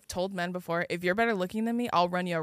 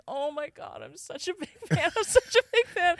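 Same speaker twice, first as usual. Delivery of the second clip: high imitated fanboy gush, building; geeking-out fan; 9 semitones higher than usual. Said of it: "he's, like, geeking out".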